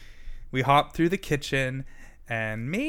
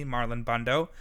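ordinary delivery

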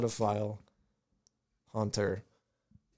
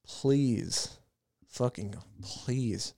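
begging; 6 dB quieter, much slower than usual. Real, not acted. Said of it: "I've reached the point of begging".

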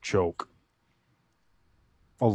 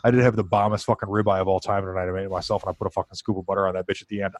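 rushing it all out without breathing; one long breathless run-on. Real, not acted. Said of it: "Can't believe I got all that out in one breath".

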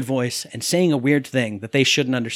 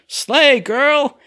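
high, loud mock catchphrase; Louis; 9 semitones higher, 5 dB louder than usual. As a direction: imitate him with pitch shooting up. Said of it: "And he goes".

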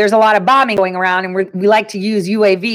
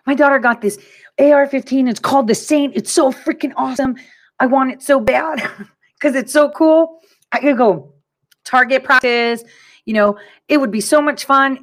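higher-pitched, eager gushing; retold excitement; 4 semitones higher than usual. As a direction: gush about a new favorite thing. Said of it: "I was so excited".

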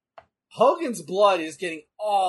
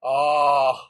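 laughing; 5 dB louder, slower than usual. Real, not acted. Laughing at coming move.

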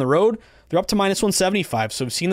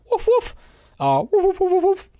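high, playful woof woof dog bark. Pretend. Host barking for his underdog pick, high playful woofs. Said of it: "Let's see if we can get a dog to bark".

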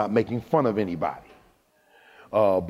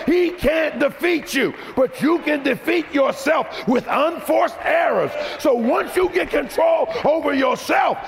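high, shouted preaching; preaching at full force; 13 semitones higher than usual. Acted. Preacher exhorting his congregation, shouting. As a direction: drive the scripture home to the crowd.

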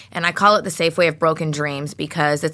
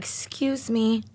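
apprehensive man; 5 semitones higher, 6 dB quieter than usual. Retold or imitated. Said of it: "he looked hella apprehensive".

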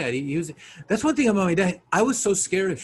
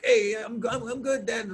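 higher, halting, half-hearted bravado; faking macho; 6 semitones higher than usual. Retold or imitated. Son assuring his dad he is fine, faking macho. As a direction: imitate a son badly faking toughness. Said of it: "You're trying to be all, you know, hey, macho too".

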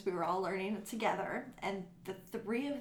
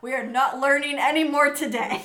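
loud, higher fed-up teacher; mock exasperation; 5 semitones higher, 11 dB louder than usual. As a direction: throw up your hands and declare class over. Teacher retells giving up on her students.

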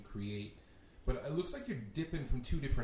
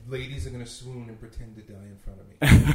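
laughing; 12 dB louder than usual. Real, not acted. Jokes about ladies swooning.

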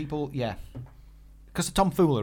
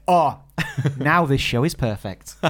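laughing relief; 4 dB louder, slower than usual. Retold or imitated. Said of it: "I was like".

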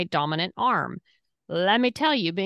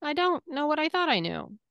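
a lightly higher put-on voice for a smug know-it-all; mock know-it-all voice; 7 semitones higher than usual. Mimicking a host's fun fact, a mild mock smug voice. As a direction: play the smug guy, then let him deflate. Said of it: "he's just basically saying".

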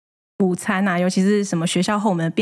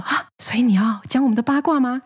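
mildly excited mock gasp, pitched up; excited, higher-pitched retold question; 4 semitones higher than usual. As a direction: imitate a boss asking eagerly about gossip. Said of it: "很兴奋的声音问说".

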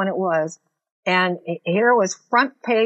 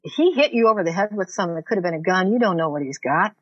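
inner voice of caution; faster than usual. Retold or imitated. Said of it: "my common sense says".

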